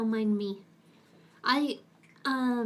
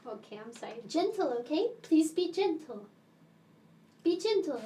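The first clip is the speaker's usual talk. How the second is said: ordinary delivery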